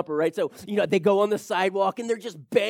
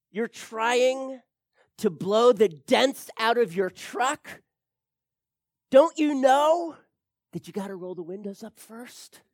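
dad's punchline; 2 semitones higher, 3 dB louder than usual. Retold or imitated. Dad delivers joke punchline.

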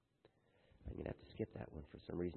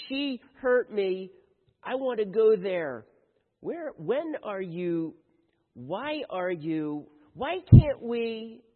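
put-on high, whining kid, slowing and louder to the end; whiny nagging child; 7 semitones higher, 5 dB louder, slower than usual. Child pestering Mom from a card, whining higher and louder. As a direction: nag like a needy child who won't let up.

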